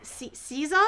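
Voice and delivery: Caesar as "SEE-zah", questioning; tentative pronunciation. Shown as a demonstration. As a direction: try Caesar with stuttered starts, ending "-zah". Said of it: "is it like Caesar, but with an accent".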